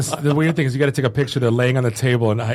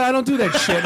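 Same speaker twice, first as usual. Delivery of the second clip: grumpy celebrity; 10 semitones higher than usual. Retold or imitated. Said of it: "He goes".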